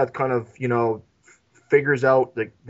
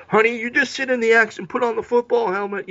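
amused wife; 7 semitones higher than usual. Retold or imitated. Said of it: "where she's just like".

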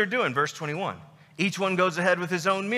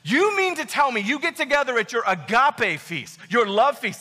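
indignant Paul. Acted. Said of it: "feel what Paul's feeling right now".

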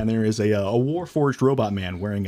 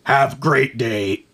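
slow robot voice; 2 semitones higher, much slower than usual. Acted.

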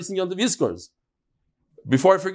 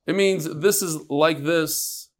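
slow explaining; slower than usual. Shown as a demonstration. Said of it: "a fancy word for a simple idea".

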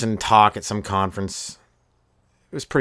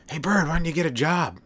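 higher-pitched jeer; mock heckling; 7 semitones higher than usual. Comic plays someone jeering at a bird, mock heckling.

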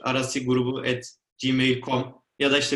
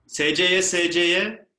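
louder, higher winner call; excited announcement; 5 semitones higher, 4 dB louder than usual. Real, not acted.

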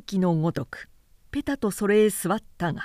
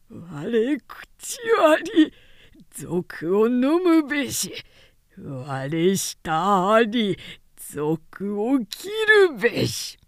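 a tortured prisoner crying defiance at his captor; defiant cry; 3 semitones higher, much slower than usual. Acted. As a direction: proclaim it with unbroken defiance. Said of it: "と叫んだ".

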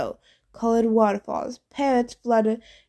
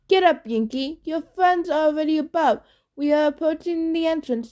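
gravelly ghost captain; 5 semitones higher than usual. Acted. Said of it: "The captain's gravelly voice".

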